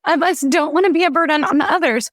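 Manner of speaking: holding back tears while telling it; tearing up. Real, not acted. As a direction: voice lifted with real emotion on the edge of crying. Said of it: "I'm gonna tear up thinking about this".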